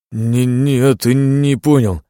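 stammering. A narrator's reading. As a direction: stumble over the words. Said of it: "начал заикаться он". (заикаясь, громче и выше)

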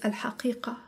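"الحقيقة" whispered briefly, no voice; curt whisper. A narrator's reading. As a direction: breathe out "الحقيقة" in one short whisper. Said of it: "أجاب بإيجاز".

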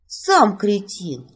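a touch of indignant snap, slow; mild outburst. Acted. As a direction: fire back, only half-hot. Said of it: "взорвалась я". (героиня слегка вспыхивает в ответ магу)

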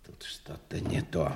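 man sensing something is wrong; whisper. Acted. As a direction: breathe the doubt under your breath. Whispered doubt to himself.

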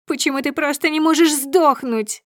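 high, loud, raging; furious screaming. A narrator's reading. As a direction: scream it like a cornered beast. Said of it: "бешенство разъярённого зверя".

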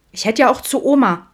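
high, loud whiny objection; petulant teenage comeback; protesting teen. A narrator's reading. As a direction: protest sulkily at Dad. Teen protests to her father.

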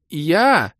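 high, loud one-word squeal; high yelp. A narrator's reading. Док claims the demoness' attention, squeaking. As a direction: pipe up very high. Док eagerly butts in again.

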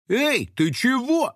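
high, slow indignant protest; outraged at being filmed; a caught bloger protests to the girl, high and indignant. A narrator's reading. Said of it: "возмутился блогер".

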